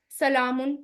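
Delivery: सलामुन with a clear उन ending; Arabic case ending. Shown as a demonstration. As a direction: end सलामुन on a firm un. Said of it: "Ibrahim अलैहिस्सलाम क्या कहते हैं".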